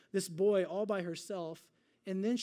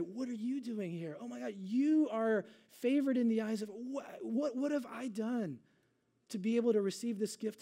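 higher-pitched, stammering astonishment; amazed disbelief; 3 semitones higher than usual. Retold or imitated. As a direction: act out being overwhelmed by the honour. Elizabeth voiced as amazed at Mary's visit.

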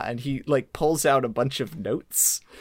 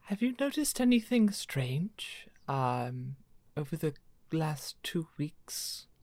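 lightly voiced woman, soft and breathy; a hint of a hushed lady; Lady Dave's voice; 5 dB quieter, slower than usual. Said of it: "supposed to still be doing Lady Dave's voice".

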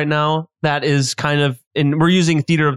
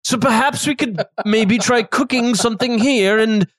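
lightly raised chef voice; chef character voice; 5 semitones higher than usual. Acted. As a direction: talk like the chatty chef host.

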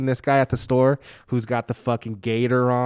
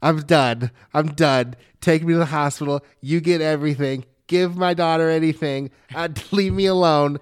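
melodramatic; 5 semitones higher than usual. Retold or imitated. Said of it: "I was just like".

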